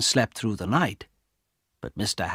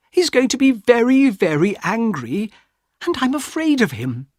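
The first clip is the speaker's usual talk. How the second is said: high, pained and pleading; frightened sister; 9 semitones higher than usual. A narrator's reading. Sister confronting her brother about the stolen necklace, high and frightened. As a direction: let fear and hurt push the voice up. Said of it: "Her voice was very quiet now".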